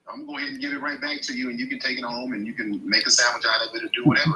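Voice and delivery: rising into a full-voiced rant; loud rant. Real, not acted. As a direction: give it right back, loud and fast. Venting it off her chest.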